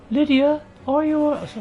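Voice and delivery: high, lilting call; put-on calling voice. Player calling the companion, high and theatrical.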